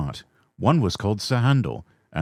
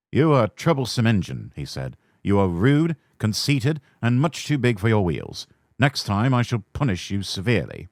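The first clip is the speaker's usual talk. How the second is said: severe; 3 semitones higher than usual. Acted. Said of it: "was severe with Sir Handel".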